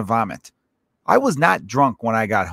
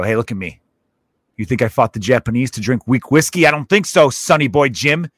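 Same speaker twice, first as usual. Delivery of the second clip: lightly voiced gruff war veteran, getting louder; old tough guy; 5 dB louder than usual. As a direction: put down the young bartender like an old tough guy. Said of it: "old tough guys, when they order their whiskey".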